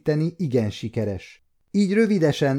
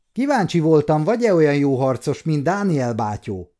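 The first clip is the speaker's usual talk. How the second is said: mischievous laugh; 4 semitones higher, 3 dB louder than usual. Acted. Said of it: "nevetett huncutul a gyerek".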